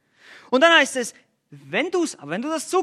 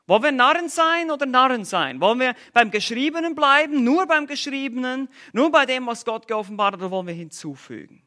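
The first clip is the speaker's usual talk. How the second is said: raised, insistent preacher's call; fervent preaching; 4 semitones higher, 4 dB louder than usual. Real, not acted. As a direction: press the congregation hard on the choice. Preacher presses the choice. (eindringlich und laut predigend)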